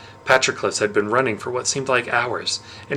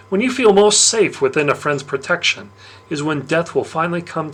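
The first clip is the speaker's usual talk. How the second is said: sly Dionysus; 4 semitones higher, 3 dB louder than usual. Acted. Dionysus taunting the boy who drank his wine, smug and loud. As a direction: savour the gotcha like a smug god.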